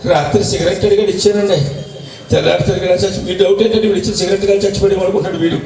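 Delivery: lightly voiced neighbour offering condolence; consoling neighbour. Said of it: "ఎదురింటి ఆయన వచ్చి ఓదార్స్తున్నాడు".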